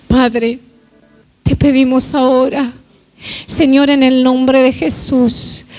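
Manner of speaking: steady, earnest prayer voice over music; heartfelt prayer. Acted. Pastor praying over the church, earnest and steady. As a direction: pray for the congregation, humble and sure.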